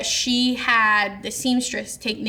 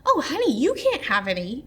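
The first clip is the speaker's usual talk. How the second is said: lightly mocking sing-song sweetness, pitched up; condescending mother-in-law; 4 semitones higher than usual. Mother-in-law keeps cake from daughter-in-law, mock condescension. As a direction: imitate a sugary refusal. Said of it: "That's how she talks".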